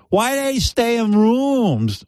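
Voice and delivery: high, drawn-out bewilderment; mock-naive high whine; Chinny impression. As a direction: question it high, hopelessly confused. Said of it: "she doesn't know what's going on".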